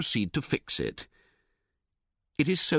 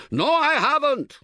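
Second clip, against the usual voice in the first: much higher, louder defiant yell; yelling back; 6 dB louder than usual. A narrator's reading. Tentmate yelling back over the tent, high and loud. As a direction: holler it back. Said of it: "he yells back".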